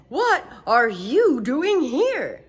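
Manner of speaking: slow stern chief voice; booming surprised chief; fire chief. Acted. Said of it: "he said".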